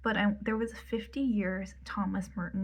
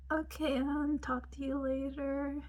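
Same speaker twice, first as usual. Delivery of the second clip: higher-pitched mock farewell; retold polite goodbye; 5 semitones higher than usual. Cellist leaving the lecture answers Anne, high mock politeness. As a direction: lift the voice for a put-on goodbye.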